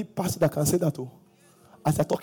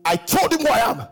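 commanding retold challenge; 6 semitones higher than usual. Retold confrontation.

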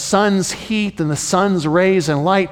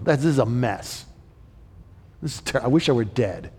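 muttering Jonah. Retold or imitated. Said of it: "just kind of muttering it to himself".

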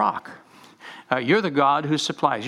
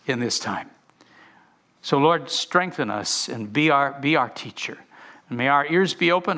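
prayer; 2 semitones higher than usual. Real, not acted. Pastor prays before reading.

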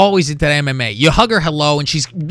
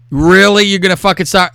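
retold incredulous challenge; 2 semitones higher, 6 dB louder than usual. Retold challenge as she starts again.

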